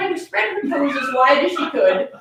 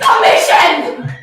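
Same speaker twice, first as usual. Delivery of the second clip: slow, louder, hammed-up proclamation; mock grand declaration; 6 dB louder, much slower than usual. Reader echoing the plan's heading: hammed-up slow shout. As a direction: announce it like a movie trailer.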